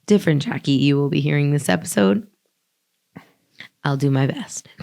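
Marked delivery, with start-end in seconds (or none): 0.1-2.3 hoarse, barely there voice; speaking with no voice left; lost voice. Real, not acted. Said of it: "I have no voice".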